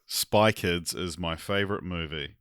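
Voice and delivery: put-on slow, low try at a New Zealand accent; attempted Kiwi accent. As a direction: copy a Kiwi accent carefully, slowly. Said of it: "in a Kiwi accent".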